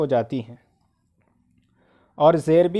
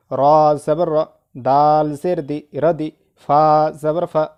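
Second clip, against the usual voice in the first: measured letter names, then the joined word; spelling drill recitation; 4 dB louder, slower than usual. Shown as a demonstration. Teacher spelling words for learners, drill recitation. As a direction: spell it out in a steady rhythm, then join it.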